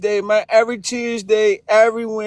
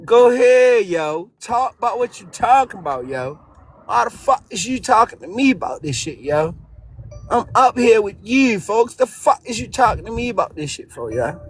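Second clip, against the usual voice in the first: heavy Baltimore slang, hard to follow; thick Baltimore accent. Acted. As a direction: talk like you're from Baltimore, thick. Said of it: "Someone translate that".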